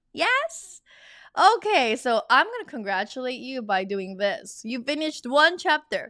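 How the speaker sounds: loud, high cheering for the learners; excited celebration. Real, not acted. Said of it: "I just use my little sound effect".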